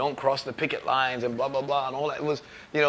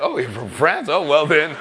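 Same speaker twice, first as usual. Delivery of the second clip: mock impressed; 3 semitones higher, 5 dB louder than usual. Label man suddenly impressed.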